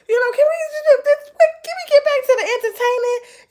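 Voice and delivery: high, loud mock-whiny viewer voice; whiny viewer complaint. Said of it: "I know how y'all feel sometimes with me".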